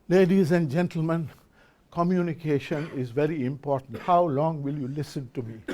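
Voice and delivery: low, quiet monotone lecture voice, mock boring; flat dull speaker demo. Shown as a demonstration. A lecturer showing an audience how a dull voice sounds. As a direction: drone it out like a speaker nobody listens to. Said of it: "Vocal, if I speak and say".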